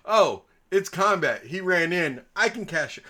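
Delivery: a hint of a gleeful caster; mock bard voice. Bard who hears permission to cast, mock eager. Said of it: "That is exactly what she heard".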